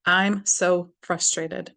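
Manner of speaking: steady tapping affirmation voice; slow affirmation. Shown as a demonstration. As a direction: say it deliberately as you tap. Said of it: "Then under the arm".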